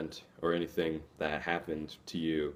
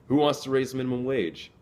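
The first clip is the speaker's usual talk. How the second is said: higher, louder call to the crowd; rallying call; 7 semitones higher, 4 dB louder than usual. Shown as a demonstration. Speaker rallies minimum wage workers, calling out loudly. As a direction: fire up the room for a show of hands.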